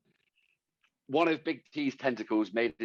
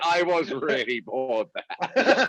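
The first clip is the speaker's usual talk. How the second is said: laughing tease; slower than usual. Real, not acted. Teasing friend's long rant.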